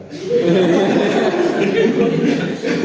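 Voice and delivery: loud open laugh at his own joke; hearty laugh. Real, not acted. Doctor laughing at his own hospital story, loud laugh.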